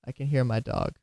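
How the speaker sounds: ordinary delivery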